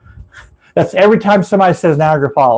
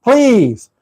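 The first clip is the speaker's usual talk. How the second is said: calling into the trunk; 6 semitones higher, slower than usual. Shown as a demonstration. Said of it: "knock on the trunk and say".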